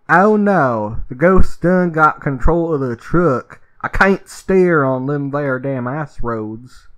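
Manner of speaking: mock redneck trucker drawl, slow; redneck accent. Ghost-hunting trucker panics on the ice road, mock redneck accent. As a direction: ham up a panicked hick trucker. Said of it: "so they're just gonna be rednecks".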